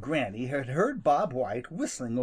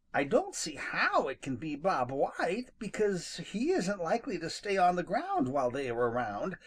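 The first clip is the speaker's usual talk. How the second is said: put-on higher young rabbit, puzzling; Peter Rabbit voice; 6 semitones higher than usual. Rabbit wondering why the foxes prowl, higher. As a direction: work it out aloud in a small high voice.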